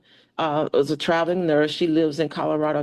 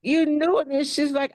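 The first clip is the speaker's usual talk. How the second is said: choked up; 10 semitones higher than usual. Retold or imitated. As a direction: voice breaking with tears, higher. Retells learning mom knew.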